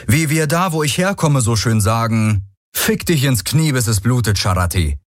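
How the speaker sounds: cheeky insult, lightly voiced; young Kronda taunting. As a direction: toss the insult out with a grin. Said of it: "sagte die Stimme des jungen Kronda".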